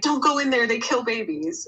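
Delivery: put-on mild, toned-down yell. Retelling what people screamed at the speaker while being trolled, imitating people screaming. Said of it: "They were like screaming at me".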